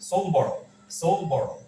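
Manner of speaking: "সোল bottle" with no d after l; silent d. Shown as a demonstration. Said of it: "সোল্ড না বলে আমরা, আহ, সোল বলবো". ("সোল্ড" এর ড বাদ দিয়ে "সোল বটল")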